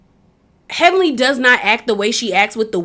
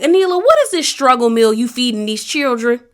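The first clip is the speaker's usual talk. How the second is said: exasperated scolding. Retold or imitated. Acting out her scolding reaction.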